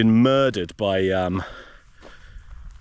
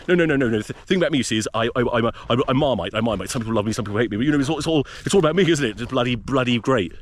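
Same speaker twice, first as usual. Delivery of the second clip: James Haskell impression; faster than usual. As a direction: do a rough, half-lost take on a big-headed club DJ who loves himself. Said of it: "Been working on a James Haskell impression".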